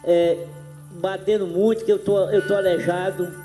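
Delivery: speaking with missing teeth; words slurred through a toothless mouth. Real, not acted. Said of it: "sem dente aqui na minha boca".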